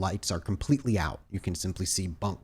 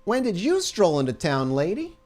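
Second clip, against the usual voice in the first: flirty guard voice; 8 semitones higher, 3 dB louder than usual. Acted. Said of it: "he pulls it out".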